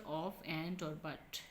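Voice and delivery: each weak word spelled out slowly; slow demo. Shown as a demonstration. Teacher listing words slowly for students. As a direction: read the little words out one by one for the class. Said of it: "For example".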